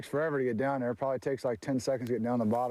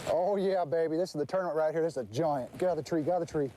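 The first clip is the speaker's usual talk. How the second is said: excited; 4 semitones higher than usual. Real, not acted. Angler hooks a giant fish.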